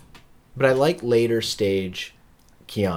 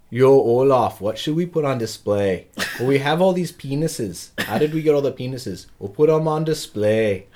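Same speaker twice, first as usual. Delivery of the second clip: a failed attempt at a Swedish accent, higher and louder; bad Swedish accent; 5 semitones higher, 6 dB louder than usual. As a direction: ham up a Swede who lands somewhere in Nebraska. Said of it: "I don't know what accent that was supposed to be".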